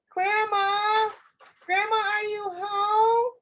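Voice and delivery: put-on high child's call; little girl calling. Red looks for Grandma, high calling voice. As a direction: call out high, searching the house.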